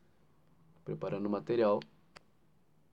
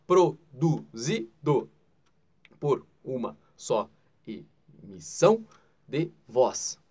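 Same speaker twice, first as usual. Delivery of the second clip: slow, louder, each syllable split apart; 8 dB louder, much slower than usual. Shown as a demonstration. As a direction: hop through every syllable slowly. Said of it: "Sabe aqueles pulinhos que o teu olho dá".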